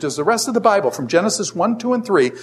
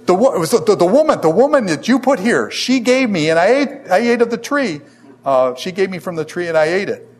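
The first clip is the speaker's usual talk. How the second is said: higher, louder, stammering blame; the first man pinning it on the woman, in a whiny higher voice; pathetic excuse; 4 semitones higher, 4 dB louder than usual. Acted. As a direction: sputter it out like a man caught, pointing at the woman. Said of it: "This is pretty pathetic".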